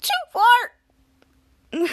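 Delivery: high, loud cry of protest; retold yell. Retelling the toddler fight, yelling too far. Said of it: "I was like".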